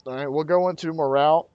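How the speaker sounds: talking through hiccups; speaking with the hiccups. Real, not acted. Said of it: "Got the hiccups".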